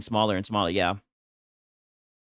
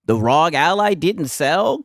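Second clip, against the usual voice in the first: slower, louder, exclaimed question; mock incredulous question; 3 semitones higher, 5 dB louder, slower than usual. Streamer imagining his Tuesday stream title, mock incredulous. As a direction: punch it out like a shocked headline. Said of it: "Question mark, exclamation point".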